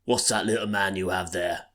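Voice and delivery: loud call across a pub; barfly yelling at a stranger in a joke; mock shout down the bar. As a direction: hail him from the far end, half playing it. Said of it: "he shouts down".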